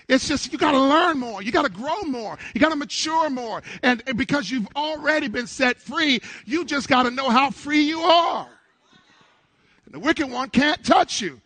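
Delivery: high-pitched, driving exhortation; insistent, lifted sermon cadence; rousing preaching. Real, not acted. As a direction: urge the congregation on, line after line. Preacher building again to congregation.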